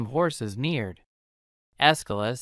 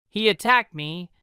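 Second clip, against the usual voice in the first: shouted; 5 semitones higher than usual. Acted. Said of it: "shouted Abraham".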